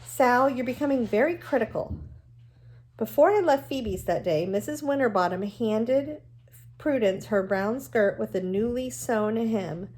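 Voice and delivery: reading a novel aloud to the class, even and clear; steady read-aloud storytelling voice; story narration. A narrator's reading. Teacher reads novel aloud to class.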